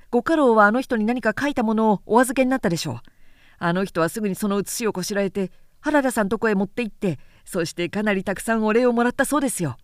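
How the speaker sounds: quick, easy gossiping voice, lightly played; chatty young retainer. A retainer gossiping to Harada, quick and breezy. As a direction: rattle off the secrets breezily.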